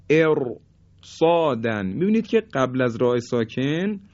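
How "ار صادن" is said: "ار، صادن" with a thick, resting R; heavy R. Shown as a demonstration. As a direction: pause on the heavy ر of "ار", then "صادن". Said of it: "به این شکل حرف را". («ار، صادن» با رای ساکن درشت)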